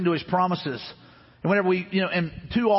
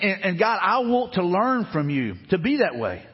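slow, earnest prayer to God, each line drawn out; slower than usual. Retold or imitated. Preacher voicing his own prayer in hard times, slow and earnest. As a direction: pray it slowly, name by name. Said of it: "I just have to go".

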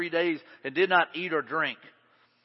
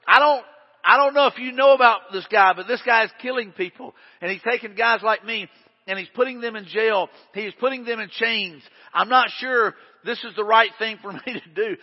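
higher, louder worried plea; anxious Ananias; 3 semitones higher, 6 dB louder than usual. Acted. Ananias pleads with the Lord, a worried, higher, louder protest.

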